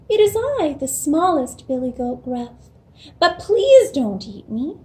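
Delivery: high little goat voice; lightly voiced small goat, pleading; tiny billy goat. Smallest goat answers the troll.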